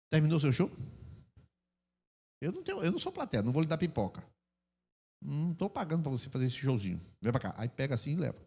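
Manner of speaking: soft, unruffled parental dismissal; calm parent. Acted. Parent to child throwing a tantrum, quiet and unimpressed. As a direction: keep it quiet and composed, no fight.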